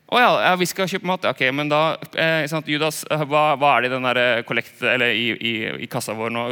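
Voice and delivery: sarcastic "oh yes, we'll buy food", fading out; ironic disciples. Retold or imitated. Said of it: "Jeg tipper det er litt sånn ironisk".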